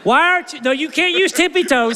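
high, scolding mock judge. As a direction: scold him playfully. Acted scolding of short volunteer.

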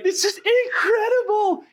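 high, laughing mock gush; giddy gush. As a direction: squeal it like a thrilled new parent. Gushing new foster parents voiced.

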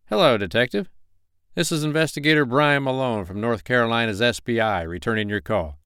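polite Carolina investigator on phone; friendly investigator voice. Acted. Narrator voices Malone on phone.

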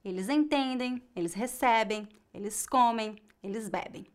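"entendem", "recebem", "comem", "bebem" with a faint nasal ending; "bebem" with its last syllable barely heard; weak final -em. Shown as a demonstration. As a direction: stress the penultimate syllable and let the final E M fade. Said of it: "das letras E M no final é bem fraca".

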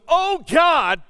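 loud, high, lifted-up plea; crying out to God. Acted. Preacher showing the church an "Oh, God" prayer, crying out. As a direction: lift your voice and cry out. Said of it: "lifting up your voice".

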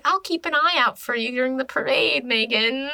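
a touch of eerie singsong; weird. Retold or imitated. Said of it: "Casey's being, like, all weird".

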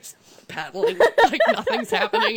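high-pitched, helpless giggling talk; laughing. Real, not acted. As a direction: barely get it out through laughter. Laughs at the useless paddling picture.

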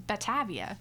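Batavia as "ba-TAV-ee-uh", falling at the end; short middle a in Batavia. Shown as a demonstration. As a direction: try Batavia with the vowel of "cat". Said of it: "I did not look up pronunciations".

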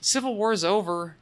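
flat, tossed-off throwaway line; throwaway deadpan. Retold or imitated. Host retelling Brad's line to cohost, a throwaway deadpan. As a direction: drop it like it barely matters. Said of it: "long pause and just".

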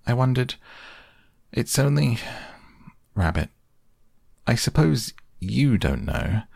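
put-on shy boy asking; young boy voice. Christopher Robin voiced shyly.

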